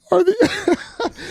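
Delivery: stammering through real laughter; losing it laughing. Real, not acted. Co-host losing his mind over trophy nominees, laughing. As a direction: try to speak, break into laughs. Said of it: "I'm laughing so hard right now".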